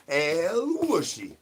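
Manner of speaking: slow, stretched sing-song name call; stretched pet call; drawn-out call. Acted. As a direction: draw the name out like calling a pet. Calling the pet.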